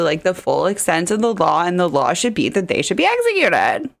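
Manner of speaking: mock-earnest defense, lightly sarcastic. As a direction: pretend to excuse him with light sarcasm. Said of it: "sarcasm for anybody who missed that. I'm, I'm being sarcastic".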